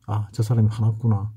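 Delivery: ordinary talk, nothing marked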